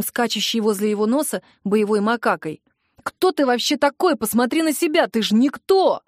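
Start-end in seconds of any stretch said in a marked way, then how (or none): 3.0-6.0 heated, raised-pitch contempt; angry put-down. Acted. Brother squaring up to his sister's boyfriend, angry put-down. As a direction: tear the rival down. Brother insults rival in quarrel.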